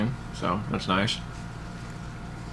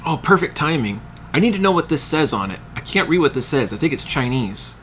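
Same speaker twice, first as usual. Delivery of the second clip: playing the clueless boss with a raised pitch; imitating the boss; 5 semitones higher than usual. Boss asks the customer to read the box, in a higher put-on voice. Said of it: "and he says".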